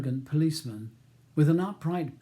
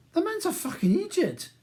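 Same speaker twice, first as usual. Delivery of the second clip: contemptuous; 4 dB louder than usual. A narrator's reading. Scotsman insults the solicitor.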